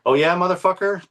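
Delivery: high, mocking voice of the furious friend; imitated angry threat. Retelling a friend's challenge at his door, high mock-angry. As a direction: voice him up high, daring and hostile. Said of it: "And he says".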